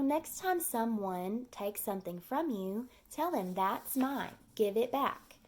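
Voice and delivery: patient teacher guidance. Shown as a demonstration. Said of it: "tell her".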